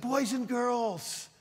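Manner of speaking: put-on sing-song greeting to a hut full of kids; slow drawn-out greeting to kids. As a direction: stretch it out like a children's pastor. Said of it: "And I said".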